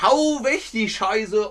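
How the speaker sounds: teacher voicing north German comic slang. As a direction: drawl it out like Werner. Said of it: "ist aber natürlich Dialekt".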